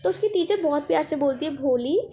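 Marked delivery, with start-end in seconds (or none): 1.5-2.0 put-on gently calling the girl by name; a lightly voiced kind teacher; mild, soft call of her name. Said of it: "The teacher voice was very, very soft and smooth".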